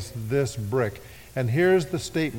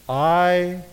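drawn out, waiting for the answer; slow call to the congregation; coaxing response; slow prompt; much slower than usual. Shown as a demonstration. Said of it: "prompting congregation".

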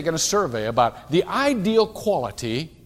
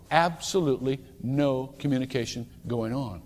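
softer repeat; 3 semitones lower, 5 dB quieter than usual. Shown as a demonstration. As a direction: let it sink in quietly. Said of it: "same words said twice".

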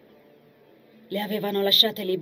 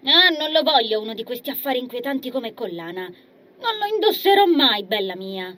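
indignant refusal; 4 semitones higher, 5 dB louder than usual. Acted. Agnese refusing firmly.

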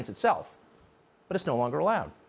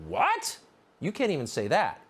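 mock disbelief; 5 semitones higher than usual. Mock outrage at taboo.

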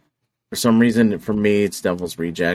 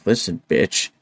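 angry clown threat; 4 semitones higher than usual. Retold or imitated. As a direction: snarl it like the killer clown wanting the car. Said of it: "he's like".

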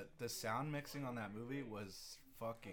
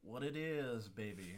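tentative southern catchphrase attempt; southern accent; 2 semitones lower, much slower than usual. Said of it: "in your southern accent".

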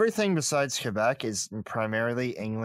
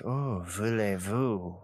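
mock Parisian French; slower than usual. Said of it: "Parisian French is like".

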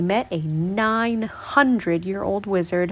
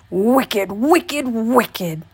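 shouting; much slower than usual. Acted. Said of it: "shouted the old man".

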